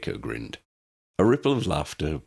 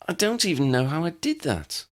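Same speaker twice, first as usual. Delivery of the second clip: fretting; 12 semitones higher than usual. A narrator's reading. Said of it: "she fretted".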